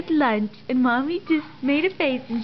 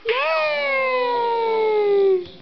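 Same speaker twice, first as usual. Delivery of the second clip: cheering yay; 8 semitones higher than usual. Shown as a demonstration. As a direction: cheer it out big to show her how. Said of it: "Say yay!".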